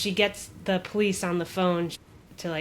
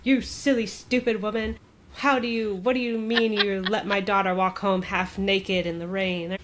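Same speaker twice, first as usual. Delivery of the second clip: lightly acted telling-off, slightly raised pitch; retold berating. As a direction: imitate an irate parent scolding a teacher. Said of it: "starts berating the teacher".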